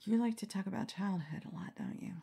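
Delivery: a sly, soft whisper; a hushed, knowing tease to the interviewer; teasing whisper. Real, not acted. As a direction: whisper it like a playful jab. Teasing the interviewer about childhood.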